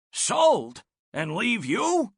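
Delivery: high, playful mock outrage; teasing guinea pig. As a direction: tease her with fake shock.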